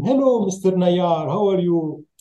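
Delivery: lightly voiced Italian host; Italian greeting. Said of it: "they used to tell him".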